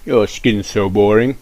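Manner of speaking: loud, slow mocking jeer; taunting kid. Cool kid teasing Rafiki's plain skin, slow loud jeer. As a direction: drag out the insult.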